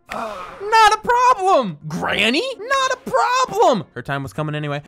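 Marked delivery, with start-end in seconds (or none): 0.1-3.8 high, drawn-out "problem"; gleeful boast. Pretend. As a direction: crow it loudly and high, playfully. Gleefully dispatching a granny in game.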